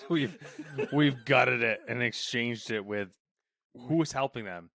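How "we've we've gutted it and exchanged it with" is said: laughing mock quote. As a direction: say it while laughing. Joining the joke laughing.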